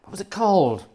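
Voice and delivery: half-whispered, racking the memory. Real, not acted. Host muttering to himself while trying to remember, whispered. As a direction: whisper it to yourself, no voice at all.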